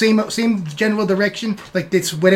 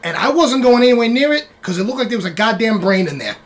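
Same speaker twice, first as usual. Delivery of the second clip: cursing, wary rat report; wiseguy rat. Acted. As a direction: rat describing a creepy pool. Rat reports swamp room.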